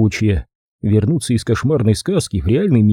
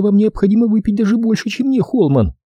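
frowning; 11 semitones higher than usual. A narrator's reading. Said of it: "нахмурилась она".

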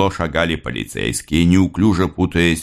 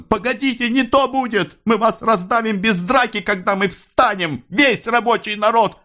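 breaking voice. A narrator's reading. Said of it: "закончил срывающимся голосом".

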